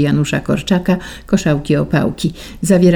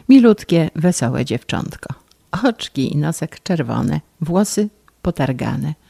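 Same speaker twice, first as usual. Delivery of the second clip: ordinary delivery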